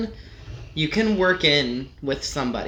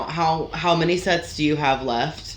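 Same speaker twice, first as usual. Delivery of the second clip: politely voiced question, rising at the end; polite asking. Gym-goer politely asking somebody about their sets, mild courtesy. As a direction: ask courteously, in an everyday voice. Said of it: "polite when you're asking somebody".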